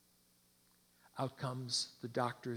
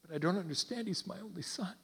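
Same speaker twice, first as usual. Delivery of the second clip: pained protest; 5 semitones higher, faster than usual. Acted. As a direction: plead in disbelief, understated. Father protests losing only son.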